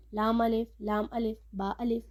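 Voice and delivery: "لام الف، با الف" run together quickly with no pause; majhool wrong way. Shown as a demonstration. Teacher imitating students who read the wrong way. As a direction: rattle off "لام الف" the incorrect way. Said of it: "یہ مجہول طریقہ ہے".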